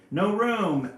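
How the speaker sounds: loud, high storybook snarl; lightly snarled jaguar refusal. A narrator's reading. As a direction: shout it high, with a mock snarl. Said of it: "Big Boy Jaguar snarls".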